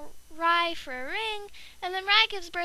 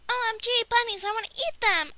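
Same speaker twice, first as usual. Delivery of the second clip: higher, louder gushing; excited squeal; 4 semitones higher, 4 dB louder than usual. Pretend. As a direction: gush over the bunnies like a hungry kid. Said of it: "Rye's like".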